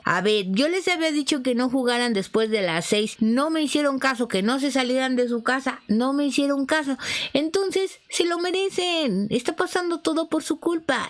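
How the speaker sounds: a hint of an angry bruja scolding; scolding witch. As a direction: wag a finger as a cross old witch. Witch scolds them for disobeying.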